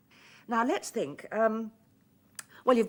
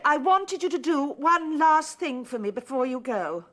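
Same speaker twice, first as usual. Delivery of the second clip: raised and pressing; louder insistent repeat; 3 semitones higher, 3 dB louder than usual. Acted. Woman pressing Freddie on the phone, louder. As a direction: repeat it harder so he hears. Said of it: "I said".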